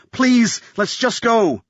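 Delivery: high-pitched anxious begging; urgent pleading. A narrator's reading. Graham begs Jolene to flee the shootout, urgent pleading. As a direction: beg to leave right away.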